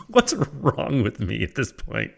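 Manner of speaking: real giggles through the words, slowed down; laughing. Real, not acted. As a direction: still cracking up at himself. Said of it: "Oh, I'm crying".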